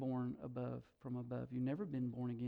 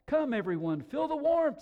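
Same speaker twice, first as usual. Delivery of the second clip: raised call climbing high; eager invitation; 11 semitones higher, 7 dB louder than usual. A narrator's reading. Woman calling her people to the fire, eager invitation. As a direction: beckon the whole crowd, louder. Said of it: "she invited".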